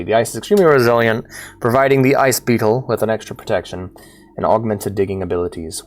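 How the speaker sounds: steady read of the scan entry; scan log reading. Acted. Streamer reads the game's scan log in a steady voice.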